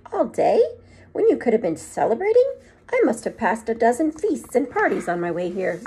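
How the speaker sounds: a stern headmistress, put out; stern witch. Acted. McGonagall voice, high.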